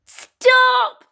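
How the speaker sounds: high, loud warning shout. Acted. Gertie warns Red Riding Hood, shouting high. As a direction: yell stop to warn her. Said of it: "Gertie shouted".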